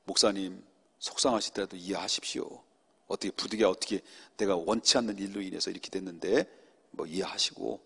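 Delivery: soft, humble asking for understanding; gently retold humble apology; patient plea. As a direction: plead quietly and patiently. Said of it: "참고".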